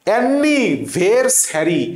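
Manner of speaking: অ্যানি ভেরস হ্যারি slowly, with an e sound in ভেরস; spelling-based pronunciation. Shown as a demonstration. Teacher teaching spelling by sound, slowly in separate parts. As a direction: break up অ্যানি ভেরস হ্যারি, each part stretched. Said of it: "এ টাইপের উচ্চারণ করার চেষ্টা করবা".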